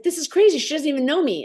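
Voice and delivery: high-pitched, incredulous protest; astonished, voice jumping up; retold disbelief. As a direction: act baffled by news that makes no sense. Acts out disbelief at the call.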